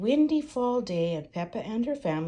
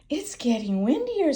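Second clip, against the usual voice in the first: Mummy Pig voice; 7 semitones higher, 6 dB louder than usual. Acted.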